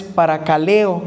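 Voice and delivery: paracaleo with the accent on the e before the o; stress on the E. Shown as a demonstration. Preacher introducing a Greek word, stress on the e in paracaleo. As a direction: lean on the e in paracaleo. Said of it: "acento en la E".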